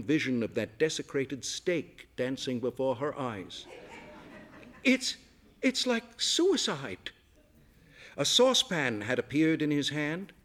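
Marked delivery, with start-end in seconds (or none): 4.8-7.1 distraught. A narrator's reading. Distraught woman stammering.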